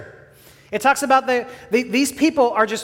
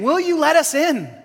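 higher, pleading refugees begging to be let in; desperate plea; 4 semitones higher than usual. Acted. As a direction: beg them to decide before the pursuers come. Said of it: "you can hear them saying".

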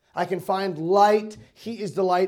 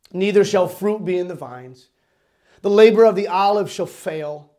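forceful, measured pulpit reading; loud, solemn preacher's recitation; scripture recitation; 6 dB louder than usual. Acted. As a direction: declaim the verse phrase by phrase.

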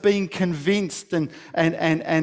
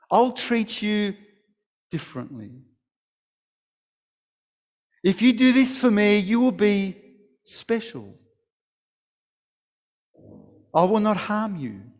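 persuasive snake; 2 semitones higher than usual. Acted. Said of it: "persuasive words of the snake".

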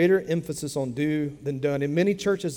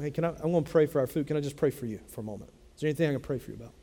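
soft, quick and friendly offer to pray; gentle ask; 4 dB quieter, much faster than usual. Shown as a demonstration. Preacher showing how to ask a waiter gently. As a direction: ask the waiter kindly, a little softer. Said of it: "But you can ask 'em".

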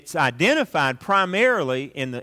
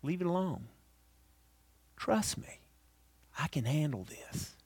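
Holy Spirit's voice; 3 semitones higher, 9 dB quieter than usual. Acted. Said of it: "Do you hear the Holy Spirit saying".

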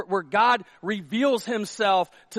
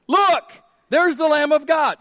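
high, loud proclamation; excited yell; 7 semitones higher, 7 dB louder than usual. Acted. John the Baptist declaring the Lamb of God, excited yell. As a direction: shout it out, excited discovery. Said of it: "He's yelling. He's excited about this".

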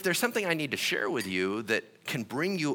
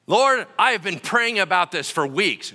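higher, louder whiny plea; mock complaint; 5 semitones higher, 9 dB louder than usual. Believer insisting to God about weeks of prayer, loud. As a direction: overstate the praying believer.

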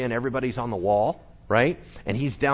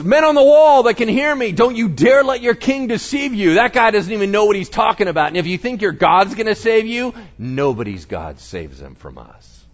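higher, louder rallying taunt; shouting to the wall; 7 semitones higher, 7 dB louder than usual. Retold or imitated. Assyrian envoy shouting to the men on the wall, loud taunt. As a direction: call out to every soldier listening. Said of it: "And then he goes".

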